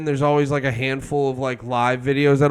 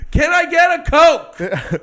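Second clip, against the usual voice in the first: high, slow mock shout; mock yelling; 11 semitones higher, 4 dB louder, slower than usual. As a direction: call out an order over the crowd. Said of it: "you're just yelling".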